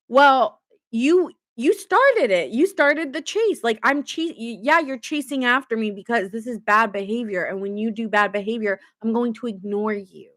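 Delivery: lightly voiced petulant kid blaming the other; playing the partner as a whiny child; childish partner. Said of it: "They're like a child".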